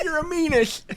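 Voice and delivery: giggling through the words; laughing. Pretend. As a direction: barely get it out for laughing.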